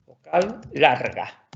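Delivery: vocal larga drawn out slowly; slow drill. Shown as a demonstration. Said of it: "vamos a hacer así".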